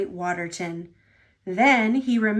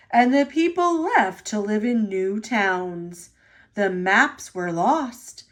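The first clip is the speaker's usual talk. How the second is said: a lightly lowered, stately boss voice; Sir Topham Hatt; 2 semitones lower than usual. Acted. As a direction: speak like the kindly railway chief.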